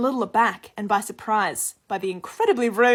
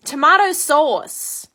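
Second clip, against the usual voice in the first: loud, drawn-out demand, pitched up; retold yell; 5 semitones higher, 8 dB louder, much slower than usual. American lady calling to passing waitress, rude mock yell. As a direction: imitate a rude customer calling out, stretching each word. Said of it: "she's literally just yelling at me".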